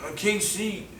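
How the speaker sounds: high, weak, strained voice; imitating his wounded self. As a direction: say it high and faint, struggling. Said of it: "this is exactly how I was talking".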